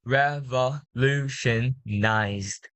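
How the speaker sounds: slow REVOLUTIONIZED, D sounded at the end; final D sounded. Shown as a demonstration. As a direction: model Revolutionized slowly with a clear final D. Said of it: "One more time. It will be the letter D".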